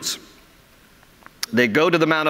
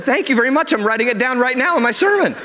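amused exasperation; 10 semitones higher than usual. Retold or imitated. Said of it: "I said".

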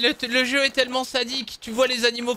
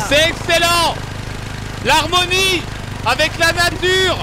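mock enthusiasm; 6 semitones higher, 4 dB louder, slower than usual. Mock nature-lover enthusiasm.

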